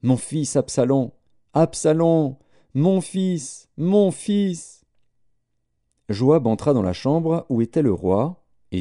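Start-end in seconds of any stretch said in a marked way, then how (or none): 0.0-4.8 crying aloud. A narrator's reading. King crying aloud for his son, high wail. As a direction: cry his son's name out, rising to a high wail. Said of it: "il criait à haute voix".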